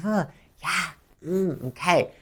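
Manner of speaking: quiet, concerned backchannel replies; sympathetic short responses. Shown as a demonstration. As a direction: softly acknowledge while someone vents. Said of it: "body language and short responses".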